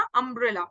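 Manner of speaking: अम्ब्रेला starting with "uh"; correct pronunciation. Shown as a demonstration. Teacher confirms the first sound, अम्ब्रेला begun with "uh". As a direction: open अम्ब्रेला on a short "uh" vowel. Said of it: "अ से शुरू हो रहा है ना".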